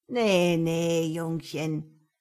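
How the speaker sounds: put-on slow, knowing old lady; slow old woman. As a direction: drag it out calmly. Old woman calm menace.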